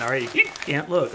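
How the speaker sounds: talking through hiccups. Real, not acted. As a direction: hiccup between the words. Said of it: "Oh, excuse me, got the hiccups".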